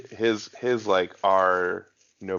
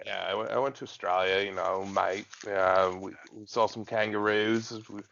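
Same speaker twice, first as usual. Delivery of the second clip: put-on Australian accent; casual mock Australian. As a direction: chat like an Australian. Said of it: "you can do Australian".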